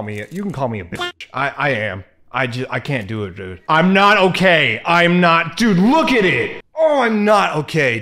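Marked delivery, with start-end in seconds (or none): 3.7-8.0 loud, high, slow panicked wail. Real, not acted. Crushing the tarantula in the game, he wails in panic. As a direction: cry out like the spider is right in front of you.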